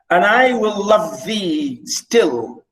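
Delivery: slow, stately verse line; poem reading. Acted. Teacher quoting the love poem, slow recitation. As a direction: recite it slowly, stretching the vowels.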